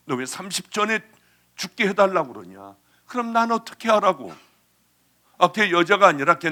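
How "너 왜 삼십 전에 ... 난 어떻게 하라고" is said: retold scolding. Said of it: "제가 야단치고 닥달을 했어요".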